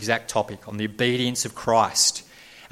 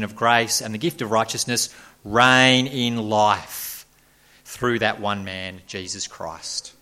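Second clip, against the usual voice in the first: solemn reading from Romans, slowing at the end; scripture reading; 4 dB louder than usual. Acted. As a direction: read the verse aloud with weight. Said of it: "have a look at verse seventeen".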